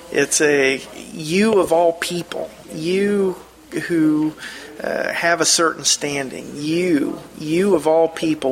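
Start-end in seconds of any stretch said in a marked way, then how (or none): 1.1-8.5 YOU leaned on, pitch lifting then falling; understated, pointed disbelief at a loved one; mild wounded reproach. Acted. Wife to husband of certain standing, mildly acted reproach. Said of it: "a wife that's heartbroken over an unfaithful husband".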